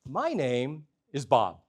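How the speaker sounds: slow, deliberate self-introduction; clerk's solemn introduction. Retold or imitated. Clerk introducing himself to customer, slow and deliberate. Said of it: "He goes".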